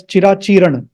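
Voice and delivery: Chirachiran with the final a dropped, ending on n; mispronunciation. Shown as a demonstration. Teacher cautions students with the wrong form, mispronunciation. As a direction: end Chirachiran on a bare n. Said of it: "please don't pronounce it as".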